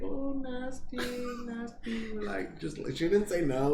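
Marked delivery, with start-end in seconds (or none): 0.0-2.1 very high, put-on woman's voice; a squeamish woman squealing at the request; mock woman's voice. Voicing the hooker again.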